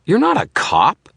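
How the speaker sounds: high, loud accusation; mock-outraged yell of discovery; accusing shout. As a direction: throw the accusation in his face.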